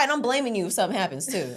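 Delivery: normal talking voice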